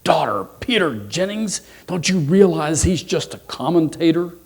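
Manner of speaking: high, loud dismay; shocked and upset. Acted. Potato mother to daughter over her fiancé, really upset. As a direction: scold in hammed-up maternal horror. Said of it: "she's just really upset and says".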